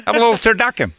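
lightly voiced football commentator; easygoing TV football announcer, barely changed; John Madden. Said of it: "we gotta go John Madden".

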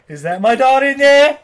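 slow, loud, high anguished wail; Sean Penn impression. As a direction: ham up a father's grief, every word pushed. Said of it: "Sean Penn going full Academy Award thing".

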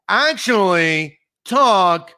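very slow, drawn-out put-on broadcaster voice; mock Adam Schein impression. Asking if the host talks this way off camera, slow mock impression. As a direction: stretch it out like a stiff TV host. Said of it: "your bad impression of him".

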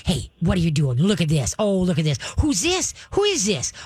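bright coaxing voice to a nervous dog; cheerful praise for a worried dog; coaxing dog talk. Shown as a demonstration. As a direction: sweet-talk the dog, happy and light. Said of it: "you don't yell at 'em".

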